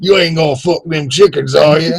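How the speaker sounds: a repeat of the Southern cop line; Southern accent, lightly put on; mock Alabama accent. Cohost repeating the line in a mock Alabama accent. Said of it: "That's all our Alabama accents".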